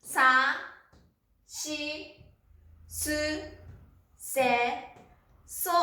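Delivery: each kana said on its own with long pauses; syllable by syllable. Shown as a demonstration. Teacher modelling sa-row kana for students, slow and spaced. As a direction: sound out every syllable apart. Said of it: "そうですね。".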